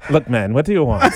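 lightly voiced grumpy old cashier; a hint of a curt old cashier; flat rote cashier. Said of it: "sound like an old cashier at the Golden Krust".

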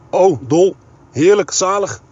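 breathless with joy at the news; gushing delight. A narrator's reading. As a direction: swoon with delight down the phone. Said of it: "riep Gerrit door de telefoon".

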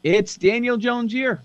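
drawn-out, high-pitched mock hype; sarcastic. Real, not acted. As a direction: sarcastically proclaim it, slow and lifted. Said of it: "I love your sarcasm".

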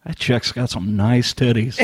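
low, slow leering comment; lecherous aside. Retold or imitated. Husband mocking his wife's show in a low leer. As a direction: leer lowly and slowly. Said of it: "I'm like".

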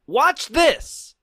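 high, punchy trailer shout; horror trailer voice. Acted. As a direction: sell it like a movie tagline. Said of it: "With an exclamation mark".

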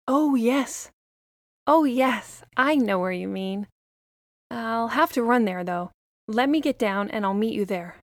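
put-on a pleading young girl asking for help; little girl voice. Lily's voice.

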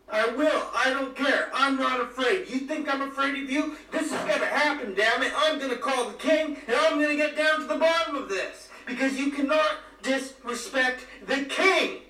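hammed-up fury at the lizard prince, going for the full shout; mounting shout. Working himself into a fury.

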